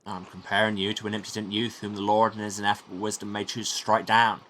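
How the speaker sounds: steady, emphatic monk's rebuke; lightly voiced stern monk. Old monk warning an impudent youth, lightly voiced sternness. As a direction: admonish like a scripture-quoting elder, lightly acted.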